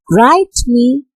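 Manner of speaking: slow "write me", weight on "write", lighter "me"; drawn-out "write me" as strong beat, weak beat; stressed-unstressed. Shown as a demonstration. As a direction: lean on "write", then release on "me". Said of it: "stressed, unstressed".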